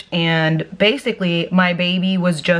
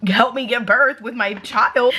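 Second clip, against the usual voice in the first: mild mock yell; 5 semitones higher than usual. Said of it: "I was screaming".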